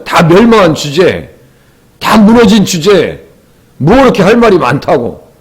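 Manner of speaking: imitated reproach, words stretched out; mock rebuke. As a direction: act out accusing friends, mildly. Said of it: "막 지금 책망하고 있는 거예요".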